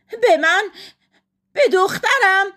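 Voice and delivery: high, loud, stunned questions; outraged disbelief. A narrator's reading. Wife hearing her daughter slandered, outraged. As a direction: throw it back, affronted.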